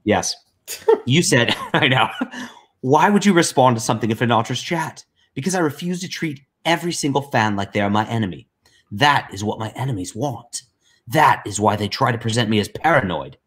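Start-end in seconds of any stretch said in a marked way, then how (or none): 2.8-13.4 lightly put-on voice reading a message; Liam. Co-host reading Liam's message aloud, lightly mimicked voice. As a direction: lightly imitate the writer, voice a touch lifted. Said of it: "I'll try to read it in, uh, in, in Liam voice".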